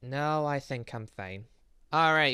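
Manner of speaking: ordinary talk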